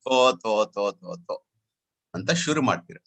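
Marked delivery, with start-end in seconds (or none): 0.0-1.3 lightly imitating a bored, yawning student. Teacher mimicking students yawning through his lecture, bored grumble. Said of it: "students start yawning".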